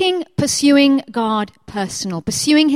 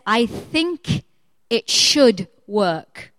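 hesitant husband quote; 2 semitones lower, much slower than usual. Retold or imitated. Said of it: "he says".

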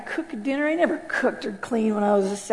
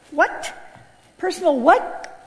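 questioning, pitched up at the end; baffled disbelief; 4 semitones higher, slower than usual. Retold or imitated. Puzzled newcomer hearing the pastor's promise, baffled. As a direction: blurt it in mock bewilderment.

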